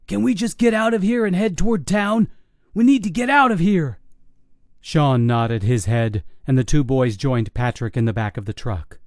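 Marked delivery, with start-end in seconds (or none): 0.1-4.0 high, loud pleading shout. Acted. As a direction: shout to get out now. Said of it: "Greg shouted".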